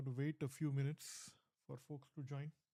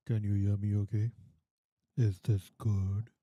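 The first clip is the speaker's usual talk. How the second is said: calling out loud; 4 semitones lower, 11 dB louder than usual. Real, not acted. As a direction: project it like a mic check. Mic check, calling out to viewer.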